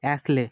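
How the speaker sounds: অ্যাসলে said "as-le", S sounded; S pronounced. Shown as a demonstration. Teacher shows how we will pronounce aisle, অ্যাসলে with the S sounded. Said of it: "আমরা উচ্চারণ করবো কি?".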